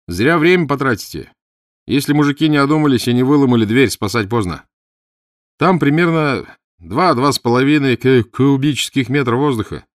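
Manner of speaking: loud, high, insistent character voice; urgent man advising. Acted. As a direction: argue loudly that time is short. (громко и настойчиво)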